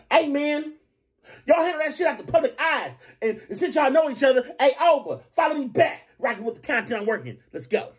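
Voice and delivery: high, laid-back LA homie voice, shoulders up; mock an LA guy talking with his traps. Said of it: "you know how L A niggas be talk".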